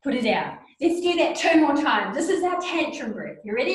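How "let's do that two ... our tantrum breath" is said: upbeat cue. Shown as a demonstration. Teacher leading the exercise.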